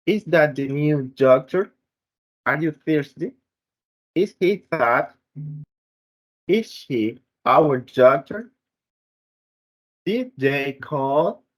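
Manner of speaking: yes-no questions rising on the last word, as in "Are you thirsty?"; rising intonation. Shown as a demonstration. Student reads example questions to show rising intonation, ending "Did they call?" upward. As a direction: lift the pitch at the end of "doctor", "thirsty", "fat" and "call". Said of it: "Rising intonation is common in the yes or no questions".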